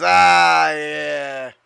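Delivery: long, contented stoner exhale of words. Acted. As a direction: stretch both words out like a stoner. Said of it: "I gotta put on my stoner voice".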